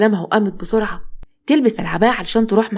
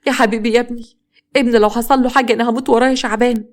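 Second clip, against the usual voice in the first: a touch of tearful grief, gently raised; mildly tearful mother lamenting; 3 semitones higher than usual. Acted. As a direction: plead for your son as if near tears. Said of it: "فاطمة بدموع".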